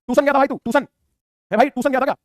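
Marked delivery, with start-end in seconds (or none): 0.1-0.9 higher-pitched teasing, ट्यूशन said "too-sun"; misspelling mocked. Shown as a demonstration. Teacher teasing a child's mistake, ट्यूशन mispronounced "toosun". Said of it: "ये लिखा हुआ है ट्यूशन". 1.7-2.1 ट्यूशन as "too-sun" in a teasing question; misspelling mocked. Shown as a demonstration. Teacher teasing the student who misspelt, ट्यूशन mispronounced "toosun". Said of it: "ये लिखा हुआ है ट्यूशन".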